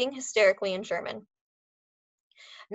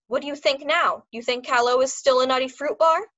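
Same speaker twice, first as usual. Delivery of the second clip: put-on a louder, higher gloat in a German accent; 4 semitones higher, 6 dB louder than usual. A narrator's reading. Dog trainer gloating at the foreman, German accent.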